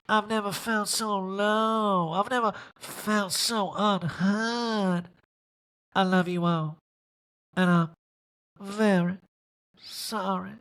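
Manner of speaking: hammed-up crying apology; mock tearful Erika. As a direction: play the weepy apology for laughs.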